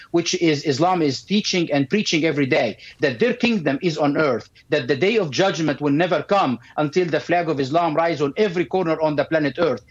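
ordinary delivery

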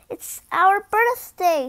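a queen proudly announcing the toys' birthday, slow and loud; proud announcement. A narrator's reading. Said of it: "she announced to Geoffrey".

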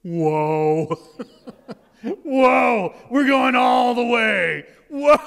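put-on high, loud, amazed child shout; a boy's loud wonder in the elevator; kid's amazed whoa. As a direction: gasp it out like a thrilled little kid. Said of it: "he goes".

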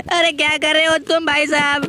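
high, tearful protest; fearful whine to a friend; whiny scared complaint. Real, not acted. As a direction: whimper the question. Frightened complaint.

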